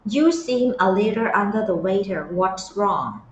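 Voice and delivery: very slow, each word stretched; slow model reading. Shown as a demonstration. Teacher to Thai students, repeating the clip line, very slow and careful. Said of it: "teacher models the clip line".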